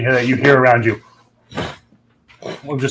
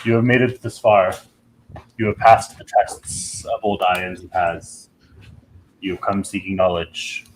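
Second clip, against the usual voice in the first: deep dragon voice; 3 semitones lower than usual. Acted. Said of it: "you hear a deep voice".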